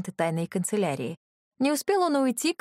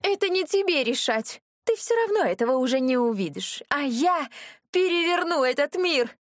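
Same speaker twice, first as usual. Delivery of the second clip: furious threat; 7 semitones higher than usual. Acted. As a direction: hurl it at her in mad rage. Безумная брюнетка грозит героине. (яростно кричать, намного выше)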